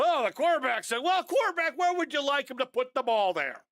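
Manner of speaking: mocking critics. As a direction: ham up the armchair critic's whine. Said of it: "And then people go".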